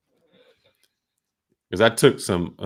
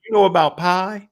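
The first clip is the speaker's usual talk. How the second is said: boss voice; 9 semitones higher, 6 dB louder than usual. Retold or imitated. Boss answers, high far voice.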